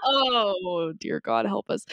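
ordinary talk, nothing marked

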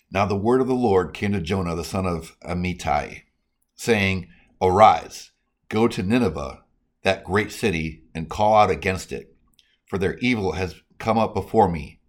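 emphatic, measured Bible reading; proclaiming scripture to listeners. Real, not acted. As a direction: read the verse out firmly, phrase by phrase. Reads scripture aloud.

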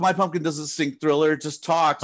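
imitating an irate customer's complaint; angry customer. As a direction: read out the angry email like a fed-up buyer. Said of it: "angry fucking, uh, emails".

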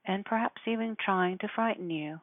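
ordinary talk

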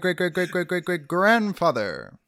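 high, loud, put-on traveler voice; time traveler. Time traveler greets Galileo's ancestor, high and loud. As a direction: announce yourself like a goofy visitor from the future. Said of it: "the one that has to do the accent".

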